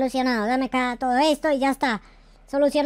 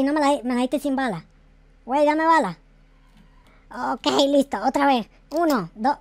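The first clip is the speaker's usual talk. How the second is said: ordinary talk, nothing marked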